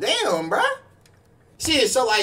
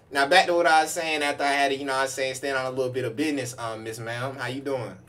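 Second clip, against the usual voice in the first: quiet polite; 7 semitones lower, 6 dB quieter than usual. Real, not acted. Turns politely to a lady.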